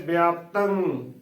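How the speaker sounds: slow ਵਿਆਪਤੰ, "bi-aap-tang", falling at the end; correct pronunciation demo. Shown as a demonstration. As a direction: draw out ਵਿਆਪਤੰ with an i-glide after the b. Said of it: "ਉਚਾਰਨ ਕਰਨਾ ਹੈ".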